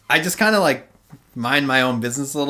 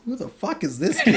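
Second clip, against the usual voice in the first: high, laughing who-is-this voice; laughing mock bewilderment; 9 semitones higher, 4 dB quieter than usual. Teller voicing the security guards eyeing the kid on the bus, laughing. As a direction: voice the guards' confusion while cracking up.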